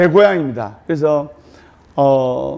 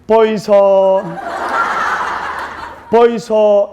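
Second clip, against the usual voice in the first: Gyeongsang bride calling; much slower than usual. Retold or imitated. Gyeongsang bride calling her husband, blunt dialect. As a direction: call out blunt Gyeongsang style. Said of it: "경상도 신랑에게".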